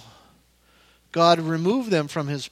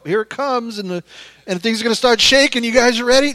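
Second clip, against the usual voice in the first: louder, quickened mock warning; mock heads-up; 3 semitones higher, 6 dB louder, faster than usual. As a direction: act out someone bracing everyone, getting louder.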